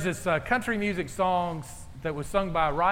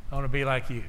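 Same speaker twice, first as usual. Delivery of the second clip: lower, manly quote; masculine voice; 4 semitones lower, faster than usual. Retold or imitated. Pastor jokes his son said it in a manly voice, lower mock voice. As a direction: say it like a grown man. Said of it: "in a more masculine voice".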